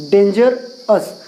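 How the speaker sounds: slow, syllable by syllable: डेंजरस as डें-जर-स; split into syllables. Shown as a demonstration. Teacher splitting a word into syllables for students, slow. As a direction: draw out डेंजरस, one part at a time. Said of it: "तो डेंजरस ऐसा होगा".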